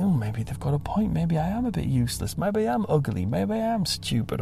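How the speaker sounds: mild acted self-doubt, rising in pitch; softly voiced mock wallowing in doubt. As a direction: lightly act out doubting yourself. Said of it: "when people reject you".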